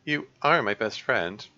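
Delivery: lightly voiced vulnerable girl character; acted lonely confession. Birthday girl admits loneliness to best friend, mildly vulnerable. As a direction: read it as a mild, hesitant confession.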